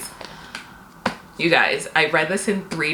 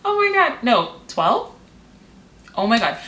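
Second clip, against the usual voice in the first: high, laughing oh my God, caught off guard; real panicked laugh at the count; laughing disbelief; 7 semitones higher than usual. Real, not acted. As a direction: squeal it out half laughing in shock. Realizes twelve books left.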